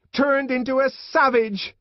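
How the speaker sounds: high, loud furious outburst; angry shout. A narrator's reading. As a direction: rage at the top of your voice. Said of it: "she shouted".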